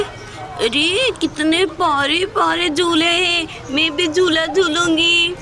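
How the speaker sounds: put-on high, lisping little-girl voice; babyish, insistent whine; childlike Saman, eager. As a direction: demand the swing like an excited child.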